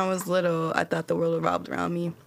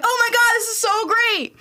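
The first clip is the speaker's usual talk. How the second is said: put-on much higher, louder childish glee; excited kid; 5 dB louder than usual. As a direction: squeal like a thrilled little kid. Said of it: "So I'm like".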